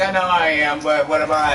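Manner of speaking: high imitation comeback; mock girlfriend voice. Vlogger imitating girlfriend's comeback, high mock voice. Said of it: "She's like".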